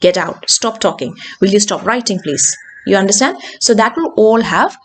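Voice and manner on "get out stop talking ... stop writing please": "out", "talking" and "writing" each dropping; falling commands. Shown as a demonstration. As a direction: give orders, pitch falling on "out", "talking", "writing". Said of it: "എല്ലാം falling intonation ആയിരിക്കും".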